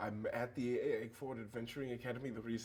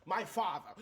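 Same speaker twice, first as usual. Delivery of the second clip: louder, higher, each word weighted; dramatic answer; 8 semitones higher, 6 dB louder than usual. Acted. Player answering the party about his father, building drama. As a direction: declare it with mounting drama.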